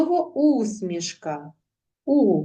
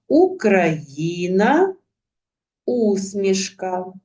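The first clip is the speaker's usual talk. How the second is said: slow dictation; much slower than usual. Shown as a demonstration. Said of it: "Відтворіть з пам'яті".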